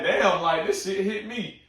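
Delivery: high, loud, choked-up disbelief; high emotional gasp of a moved fan; overcome. Retold or imitated. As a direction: let it hit you, voice cracking high. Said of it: "I'm just like".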